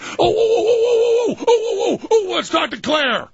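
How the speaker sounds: light up at the caller; thrilled host greeting a caller, pitched high; excited oh-oh-oh. Real, not acted.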